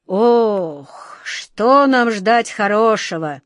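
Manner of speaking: put-on slow, gloomy old woman's mutter; a hint of a gloomy old aunt muttering. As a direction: grumble it like a fretful old aunt. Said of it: "пробормотала тётушка Ох".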